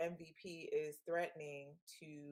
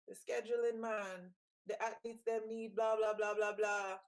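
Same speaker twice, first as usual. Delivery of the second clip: put-on Jamaican accent; 3 semitones higher, 4 dB louder than usual. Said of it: "I'm gonna start talking in my Jamaican accent".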